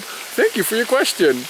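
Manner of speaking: mock patient grown-up explaining to a kid; talking down to a child. Zoo director answering a giraffe question, mock talking to a child. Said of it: "talking like she was speaking back to a child".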